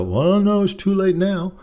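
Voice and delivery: a hint of a hurt wife saying no. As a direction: turn him down with hurt pride. Wife voiced, hurt refusal.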